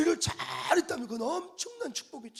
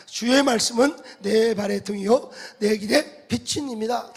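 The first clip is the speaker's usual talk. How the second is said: loud unison scripture reading; 9 dB louder than usual. Real, not acted. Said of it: "시작".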